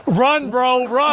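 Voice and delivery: urgent yell to run. Real, not acted. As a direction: shout it loud and high. Streamer yells at the person on screen.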